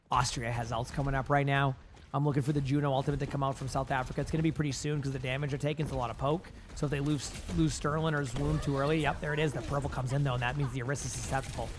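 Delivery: hoarse, strained low voice; pushing through a failing voice; losing voice. Real, not acted. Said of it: "I'm losing my voice".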